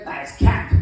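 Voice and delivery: mock slang. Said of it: "they say".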